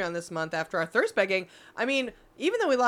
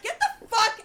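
laughing, higher mock shout back; mock furious; 13 semitones higher, 4 dB louder than usual. Retelling yelling back at the neighbor, mock furious. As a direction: yell back in hammed-up rage. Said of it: "I was like".

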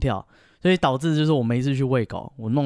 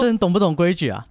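mock scolding; 5 semitones higher, 3 dB louder than usual. S1 voices the owner scolding.

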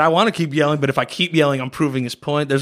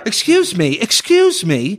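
higher, insistent put-on voice; interfering passerby; 6 semitones higher, slower than usual. Passerby butting into a couple's fight, mock insistence. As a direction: cut in as an indignant stranger, drawing it out. Meddling passerby cuts in on argument.

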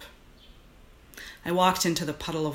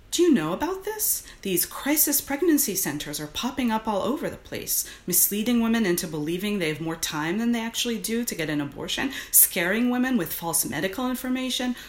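raised, pressing activist voice; rally against an injustice; urgent activist; 6 semitones higher than usual. Acted. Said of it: "her activist voice".

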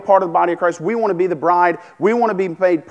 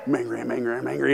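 inner angry thought; 5 semitones lower, 7 dB quieter, faster than usual. Retold or imitated. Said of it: "I think in my head".

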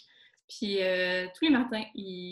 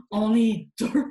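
laughing; 9 dB louder, slower than usual. Real, not acted. Laughing while answering host.

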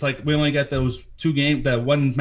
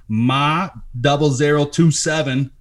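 Boston accent, slow and drawn out; 4 dB louder, slower than usual. Shown as a demonstration. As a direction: say the number in a thick Boston accent. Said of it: "that was pretty Boston accent".

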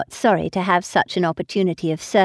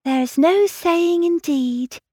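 rather solemnly; 10 semitones higher than usual. Acted. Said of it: "replied Harriet rather solemnly".

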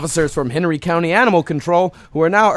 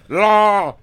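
llama sound; 3 semitones higher than usual. Retold or imitated. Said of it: "A llama's more like".

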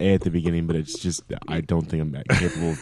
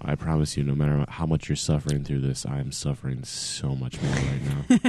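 hungover. Real, not acted. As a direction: drag it out like a hangover. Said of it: "sultry voice of suffering".

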